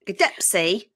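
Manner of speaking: Dempsey in a light British accent. Shown as a demonstration. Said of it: "say Dempsey in a British accent".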